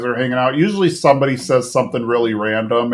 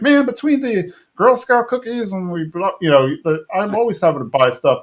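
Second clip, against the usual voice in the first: mock the mumbling neighbor complaining; Boomhauer impression; 6 semitones higher than usual. Boomhauer grumbling about always buying stuff, high mumbling impression. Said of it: "Boomhauer's, like, upset 'cause he's like".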